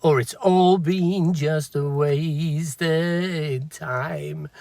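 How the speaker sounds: hoarse, slow and strained. Real, not acted. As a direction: let the voice crack, hoarse. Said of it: "Sorry, my voice is gone".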